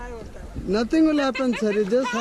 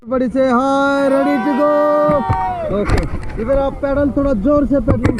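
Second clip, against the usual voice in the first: shouting orders; 5 dB louder, much faster than usual. Real, not acted. Guide calling out to raft team.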